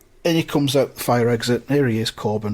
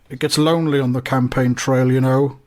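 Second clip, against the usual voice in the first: a slightly raised, confiding politician's voice; lightly voiced Corbyn. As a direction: lightly put on a wistful politician. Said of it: "And he says".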